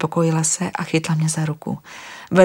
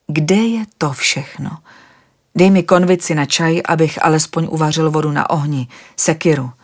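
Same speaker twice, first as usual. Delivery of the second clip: worried traveller firing questions, a bit louder; agitated questions; 4 dB louder than usual. Acted. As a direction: press her, uneasy and demanding. Vladimir demands kettle and axe.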